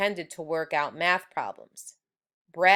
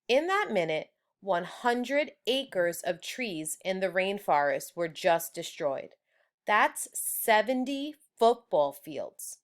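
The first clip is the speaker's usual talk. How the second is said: grave teacher. Acted. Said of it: "Mister Todd said".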